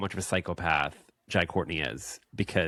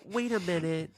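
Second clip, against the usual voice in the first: jealous character; 9 semitones higher than usual. Pretend.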